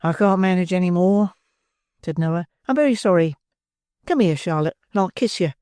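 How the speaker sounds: smug lad with a full mouth; tipsy Noah. Acted. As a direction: Noah praising oysters to Charlotte, smug and tipsy.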